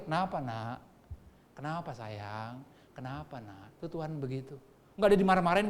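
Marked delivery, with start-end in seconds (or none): 0.1-3.8 soft, low, soothing questions; loving father. Acted. Loving father comforting his crying child, softly tender. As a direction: coax a child gently, fading quieter. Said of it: "Kalau bapak sayang tuh".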